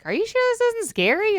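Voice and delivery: high, anxious worried voice; fretful mock nerves; nervous high question. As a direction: cousin in the ride line, nervous high question. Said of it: "Jamal's like".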